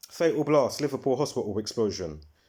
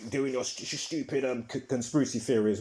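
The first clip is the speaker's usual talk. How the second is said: mocking mimicry; 3 semitones higher than usual. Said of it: "kind of slight paraphrasing there".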